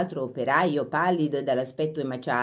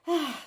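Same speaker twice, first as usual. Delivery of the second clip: sigh; 11 semitones higher than usual. A narrator's reading. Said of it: "sospirò".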